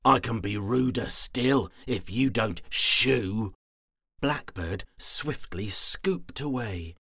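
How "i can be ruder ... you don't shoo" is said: sour threat. Acted. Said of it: "with a sour smile".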